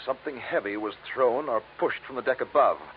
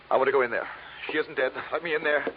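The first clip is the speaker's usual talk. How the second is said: desperate demand; 5 semitones higher than usual. Acted. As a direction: push past him, insisting. Man refuses girlfriend is dead.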